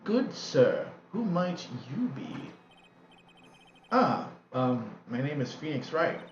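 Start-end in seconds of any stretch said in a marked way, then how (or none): 0.0-0.9 slow, formal "Good sir" with a falling close; stately old aunt. Acted. Morgan greets Phoenix. 1.1-2.5 slow, formal "Good sir" with a falling close; stately old aunt. Acted. Morgan voice.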